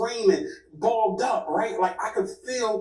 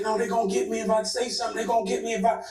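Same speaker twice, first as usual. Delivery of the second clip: fast, higher panicked retelling; mock panicked rambling; 5 semitones higher, much faster than usual. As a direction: rush it like he's losing it. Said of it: "like, he's spazzing".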